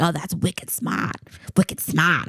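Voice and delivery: mock Boston accent. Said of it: "heavy Boston accents".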